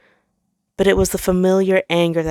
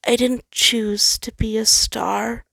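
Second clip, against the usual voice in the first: slow, higher, defeated and drained; quiet defeated admission; 5 semitones higher, slower than usual. Acted. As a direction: let it fall out, all fight gone. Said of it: "sounding much more defeated as he quietly admitted".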